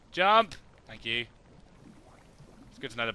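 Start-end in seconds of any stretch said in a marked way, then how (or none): 0.1-0.5 sharp loud jump command; louder, insistent "Jump!" at the game; shouted command. Shown as a demonstration. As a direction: bark it louder this time.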